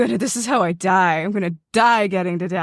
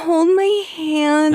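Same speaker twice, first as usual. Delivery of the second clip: mock scared plea; 8 semitones higher, much slower than usual. Scared character before jump.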